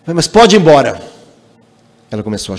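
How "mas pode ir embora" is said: rude insistence. Retold or imitated.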